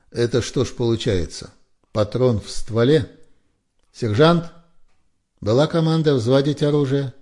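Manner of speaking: a lieutenant grilling a soldier about the round in the chamber, sternly; stern officer. A narrator's reading. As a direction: press the soldier hard.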